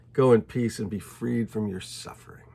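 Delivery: tender, whispered blessing; gentle whisper. Acted. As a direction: hush it like a blessing. Jesus gently sends her away.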